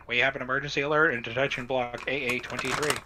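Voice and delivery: fast intercom announcement. Acted. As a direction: rattle it off like a speaker. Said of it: "Intercom voice says".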